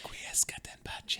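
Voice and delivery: whispered Latin blessing; solemn whisper. Pretend. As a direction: breathe it like a funeral rite.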